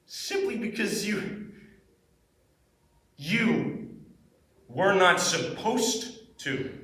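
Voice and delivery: intense monologue. Acted. Actor talking to themselves in a monologue, intense. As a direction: let it fall from the outburst into heavy pauses. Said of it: "This was a really intense monologue".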